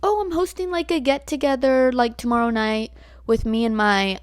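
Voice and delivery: high, bright imitation of the friend; lightly voiced friend inviting; friend's invitation. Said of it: "And she's like".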